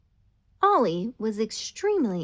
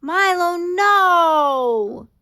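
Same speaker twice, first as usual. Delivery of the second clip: high, loud alarmed cry; yelling; 9 semitones higher, 13 dB louder, much slower than usual. Acted. Ollie yells at Milo chewing her drawing, high loud shout. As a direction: shout to stop the puppy chewing. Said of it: "yelled Ollie".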